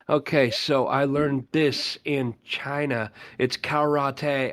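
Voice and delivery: slow, drawn-out imitation of a whispery guru; half-whispery mock sensei, very slow; weirdly whispery. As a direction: mimic a self-important master, slowly overpronouncing. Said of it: "speak in his weirdly whispery voice".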